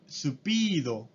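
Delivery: supido in Japanese katakana style, su-pi-do; Japanese loanword. Shown as a demonstration. Teacher showing students the Japanese reading: スピード. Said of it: "Entonces speed".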